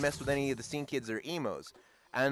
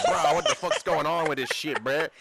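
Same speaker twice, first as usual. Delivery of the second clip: loud, bro-heavy street talk; own slangy version; 3 dB louder than usual. Pretend. Showing how the speaker would have objected, brash slangy protest. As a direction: contrast it with a rougher, casual outburst of your own. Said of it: "whereas I would have been like".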